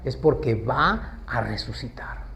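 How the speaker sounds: hushed, slow whispered assurance. Acted. Jesus assuring Martha her brother will rise, whispered. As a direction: drop to a whisper to drive it home.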